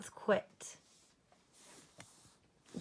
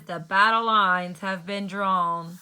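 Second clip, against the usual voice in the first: dramatic; 9 dB louder, slower than usual. Acted. Reading back cover dramatically.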